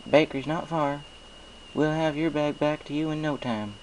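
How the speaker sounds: folksy farm pony, friendly and sure; Applejack. Acted. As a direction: play a cheerful country mare with a twang. Applejack's voice in story.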